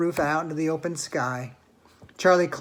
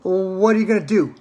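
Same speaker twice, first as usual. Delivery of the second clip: crying out; 3 semitones higher, 8 dB louder than usual. A narrator's reading. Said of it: "cried Charlie".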